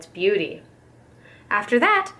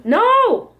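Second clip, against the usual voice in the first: high, loud shouted "No!"; scream; 12 semitones higher, 6 dB louder than usual. A narrator's reading. Babushka screams chasing the goose with a broom. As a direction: yell it high as she swings the broom. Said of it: "Babushka screamed".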